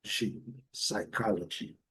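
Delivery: soft, slow "G", then "psychology" ending in "dji"; som do G. Shown as a demonstration. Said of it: "o som G". ("G" como "dji", depois "psychology" devagar e baixo)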